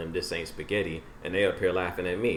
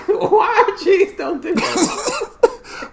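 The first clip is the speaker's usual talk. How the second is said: laughing; 11 dB louder, much slower than usual. Real, not acted. Cracking up repeating the line.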